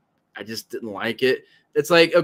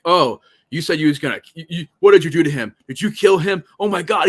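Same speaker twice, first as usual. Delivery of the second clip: fast, higher, louder panicked questions; mock freak-out; 4 semitones higher, 5 dB louder, faster than usual. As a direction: rattle it off like a man losing it. Acting out Sandman flipping out.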